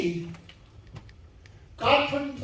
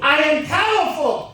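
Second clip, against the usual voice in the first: booming motivational speech; 4 semitones higher, 5 dB louder than usual. Shown as a demonstration. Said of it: "repeat after me".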